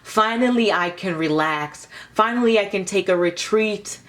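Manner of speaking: mild mock cry of relief to the sky; lifted, emphatic "finally", half-hearted scream. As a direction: act out calling out, without really yelling. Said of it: "screaming out, like".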